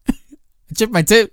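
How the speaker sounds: put-on slow, high northern accent. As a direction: draw it out in an imitated northern accent. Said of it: "the accent you're putting on".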